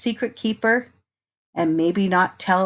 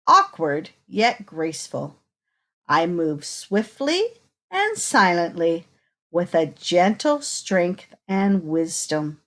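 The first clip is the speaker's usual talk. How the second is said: put-on reading to children. Reading picture book to children.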